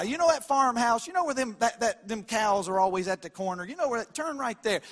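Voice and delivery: west texas twang. Retold or imitated. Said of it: "And here in the South".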